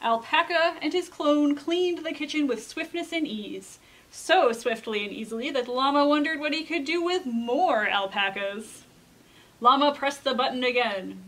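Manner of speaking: put-on measured read-aloud to children; storybook narration. A narrator's reading. Reader tells children of Llama's invitation, storybook narration. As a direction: tell it like a picture book, pointing the key words. Reads a picture book aloud.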